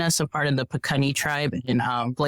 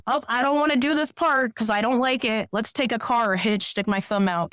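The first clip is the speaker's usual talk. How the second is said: lightly voiced lazy hiker, higher; mock trail cheater; 6 semitones higher than usual. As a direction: tease the cheaters by mimicking their excuses. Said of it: "Those are people that go".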